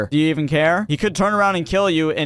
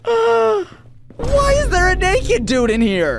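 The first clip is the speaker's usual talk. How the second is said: shocked high yelp; 4 dB louder, slower than usual. Real, not acted. Shocked at naked customer.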